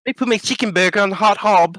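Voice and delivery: high-pitched British caricature; mock English accent. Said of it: "it's just literally just an accent".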